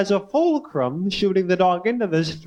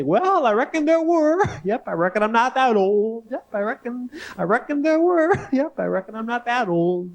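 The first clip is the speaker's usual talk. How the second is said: put-on chuckling old grandpa; 6 semitones higher than usual. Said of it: "he'd chuckle and say".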